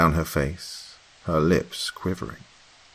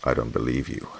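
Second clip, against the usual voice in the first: hateful; 4 semitones lower than usual. A narrator's reading. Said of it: "with hate in my tone".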